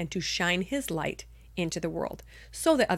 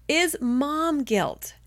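slow, breathy whispered reveal; dramatic whisper; 7 semitones higher, 3 dB louder, much slower than usual. Acted. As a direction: drop to a hushed whisper. Dramatic reveal of number one.

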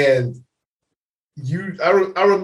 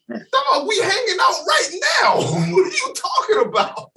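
much higher, shouting in disbelief; mock shouted protest; 14 semitones higher than usual. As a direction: yell back amazed at your drunk buddy. Friends protesting to drunk friend.

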